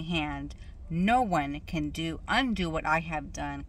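measured, emphatic reading of scripture. Real, not acted. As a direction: read the verse out deliberately, phrase by phrase. Reads scripture aloud.

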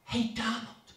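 Kamala whispering a deal to Donald, softly; whispered. A narrator's reading. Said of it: "she whispered".

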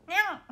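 high, loud little nyan sneeze; cat-like sneeze. Retold or imitated. Idol shows a friend's kitten-like sneeze, high and loud. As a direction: squeak it like a kitten. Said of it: "って感じ".

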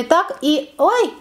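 usual speaking voice

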